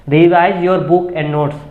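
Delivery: each word laid out very slowly; slow English pointer. Shown as a demonstration. Teacher to exam aspirants, very slow emphatic English.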